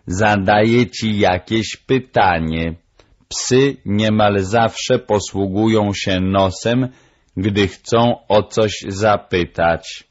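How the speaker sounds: slow, deliberate parrot voice; measured, emphatic parrot teacher; lecturing parrot. Acted. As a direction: translate patiently as the bird. Parrot interprets the dog.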